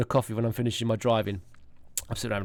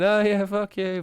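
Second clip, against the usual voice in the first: retold resentment; 8 semitones higher, 3 dB louder, slower than usual. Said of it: "and I'm thinking".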